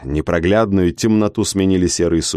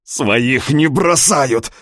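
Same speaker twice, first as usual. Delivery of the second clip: rasped; 4 semitones higher, much slower than usual. Acted. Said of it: "хрипел Юркан".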